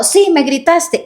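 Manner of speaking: high, slowed accusing insistence; mock insistent accusation. Spouse insisting during a staged fight, high and slow. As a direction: dig in like a stubborn spouse. Acted quarrel, insisting reply.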